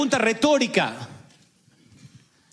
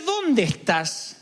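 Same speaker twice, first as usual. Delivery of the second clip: gentle call; much slower than usual. Retold or imitated. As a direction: call tenderly, hoping they come back. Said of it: "Cuando te dice". (Dios llamando con ternura, lento)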